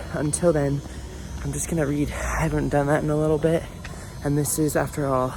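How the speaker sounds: breathless after a climb; out of breath. Real, not acted. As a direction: talk while catching your breath. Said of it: "I don't know why I'm so out of breath".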